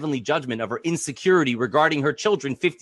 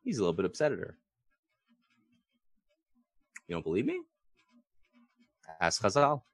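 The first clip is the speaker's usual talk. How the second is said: confiding; 5 semitones lower, 7 dB quieter, faster than usual. Real, not acted. Confiding aside.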